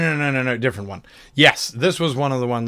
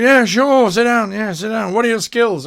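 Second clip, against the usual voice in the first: excited, higher and louder welcome; eager party; 8 semitones higher, 4 dB louder than usual. Pretend. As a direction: gush over the new recruit, pitched up.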